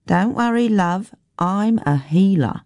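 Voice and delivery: lightly voiced self-assured healer, high start then settling; soothe, then boast a little; reassuring country woman. Woman reassuring a girl she can heal, lightly confident.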